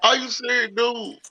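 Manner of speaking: high-pitched disbelief; high, incredulous questioning. Retold or imitated. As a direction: pitch it way up, can't believe it. Incredulous outburst, pitch far up.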